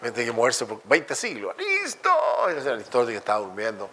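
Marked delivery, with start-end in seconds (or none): 1.6-2.1 mock yell across centuries. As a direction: call him from twenty centuries away. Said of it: "Le grita".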